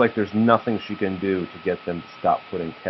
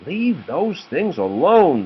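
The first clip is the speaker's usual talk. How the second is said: stern Missus Pig; 6 semitones higher, slower than usual. A narrator's reading. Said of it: "said Missus Pig".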